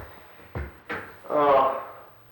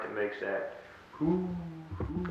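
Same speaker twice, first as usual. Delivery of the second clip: owl hoot; 7 semitones higher, 9 dB quieter, slower than usual. Shown as a demonstration. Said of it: "little animal that comes out at night".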